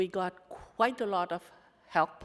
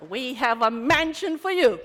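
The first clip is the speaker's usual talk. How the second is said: louder, with a laugh; laughing welcome; 9 dB louder than usual. Retold or imitated. Welcoming hurt women with a laugh. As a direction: offer it with a chuckle.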